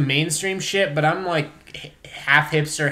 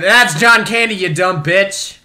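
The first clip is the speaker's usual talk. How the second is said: retold retort; 4 semitones higher, 7 dB louder than usual. Retelling own snappy retort.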